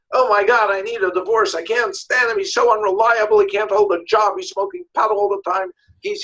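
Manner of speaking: imitating a fed-up client; exasperated venting. Woman begging divorce help, mildly acted exasperated venting. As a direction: pour out complaints in mock exasperation. Client complains about husband, re-enacted.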